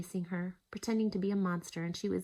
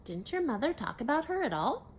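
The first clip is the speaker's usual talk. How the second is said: higher, rising astonished question; surprised; 7 semitones higher, 4 dB louder than usual. Acted. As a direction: ask in plain disbelief. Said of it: "Martha looked surprised".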